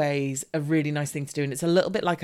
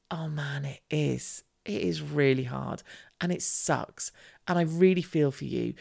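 tender sympathy. Retold or imitated. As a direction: comfort a child who is upset. Comforting daughter, notably softer.

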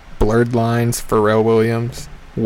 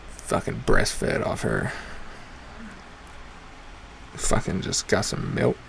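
soft whispered joke; under-the-breath whisper; whispered aside; 9 dB quieter than usual. Acted. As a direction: drop to a whisper for the punchline. Crude aside about the teacher.

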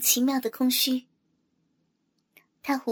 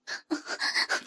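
startled gasp; 5 dB quieter than usual. Acted. Narrated struggle, startled gasps.

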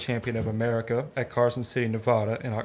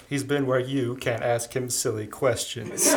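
laughing. Acted. Mister Memory joking to the lady, then laughing. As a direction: crack the joke and let the laugh burst out.

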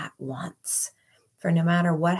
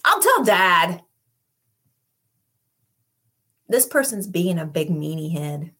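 put-on childlike tattling; 5 dB louder than usual. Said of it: "water it down to that childlikeness".

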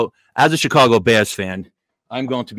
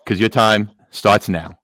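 muffled through a paper bag; paper bag over head; slower than usual. Real, not acted. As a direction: talk from under a paper bag. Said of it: "do the show with this bag on my head".

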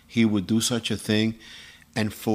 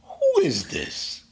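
puzzled question; much slower than usual. Retold or imitated. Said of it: "and I said".

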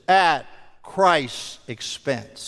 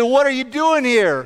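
imitated puzzled angel; 5 semitones higher than usual. Angel challenging the thief at entry.

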